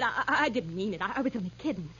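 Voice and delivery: soft, low, stammering; frightened backpedalling. Acted. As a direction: take it back timidly, tripping on words. Stammers retraction to attacker.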